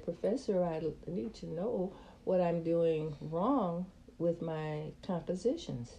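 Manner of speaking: put-on soft, timid little-girl plea; innocent voice. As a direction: ask meekly, small and soft. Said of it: "in my innocent voice".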